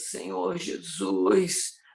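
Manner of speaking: dragging drawl, words stretched, Jesus drawn out. Describing romantic rock, the speaker demonstrates its singers' drawn-out dragging voice. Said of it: "Essa voz arrastada".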